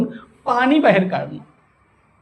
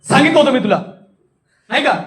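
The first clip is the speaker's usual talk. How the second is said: raised, cross reproach; angry demo scolding; 3 semitones higher, faster than usual. Shown as a demonstration. Teacher showing wrathful rasa, scolding sharply. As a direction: demonstrate rasa of anger. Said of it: "रौद्र रस आहे".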